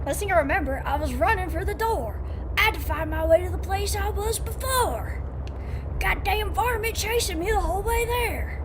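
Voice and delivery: high-pitched, put-on varmint-country accent. Player reading out a line about running, put-on accent. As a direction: read it out in a playful folksy accent. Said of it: "I just read that with an accent".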